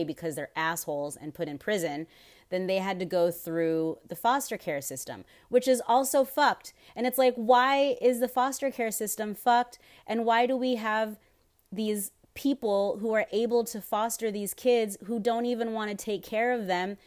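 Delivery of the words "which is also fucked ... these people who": higher and louder, fired up; real indignation, voice up and loud; heated rant. Real, not acted. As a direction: let the anger spill over the system. Ranting about foster care.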